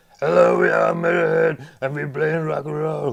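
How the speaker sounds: hoarse high-pitched shout. Answering a request to imitate a rock singer: rock singer impression. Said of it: "miten sä imitoisit lemmyä?".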